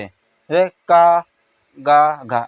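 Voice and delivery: drawn-out का, easy as a sick person could say it; effortless syllables. Shown as a demonstration. Teacher shows how easy unaspirated letters are. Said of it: "बीमार इंसान भी इसको बोल लेगा आराम से".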